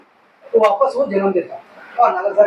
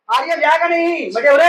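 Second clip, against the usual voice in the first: higher-pitched mock holler at someone nearby; mildly raised, calling-out voice; imitating loud talker; 4 semitones higher than usual. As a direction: act out a needlessly loud talker. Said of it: "बहुत जोर जोर बात करते".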